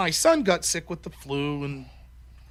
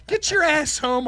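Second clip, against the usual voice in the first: high, loud, slow plea to wife; mock desperate demand; 8 semitones higher, 5 dB louder than usual. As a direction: call your partner home in comic panic. Imagined desperate call to wife.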